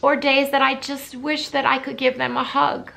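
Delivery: trying to hold back tears while speaking; choked up, missing her parents; tearful. Real, not acted. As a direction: voice rising, on the edge of tears. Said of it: "I knew that I would get emotional talking about this".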